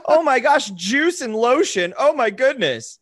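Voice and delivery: high giddy laughing recap; manic excited. Real, not acted. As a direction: race through it, laughing and giddy. Manic recap of cheerful earlier rounds.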